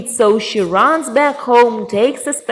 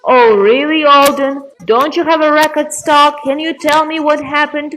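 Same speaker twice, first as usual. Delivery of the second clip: higher-pitched exasperated questioning; impatient grandpa; 4 semitones higher than usual. Acted. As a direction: press the rambling bird for the point. Grandpa impatient with repeating raven.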